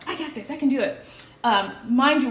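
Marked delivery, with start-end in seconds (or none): 0.1-1.0 confident I got this. Retold or imitated. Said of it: "And I'm like".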